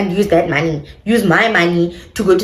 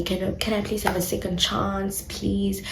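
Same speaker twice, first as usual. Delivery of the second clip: mock begging; 11 dB quieter than usual. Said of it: "begging me".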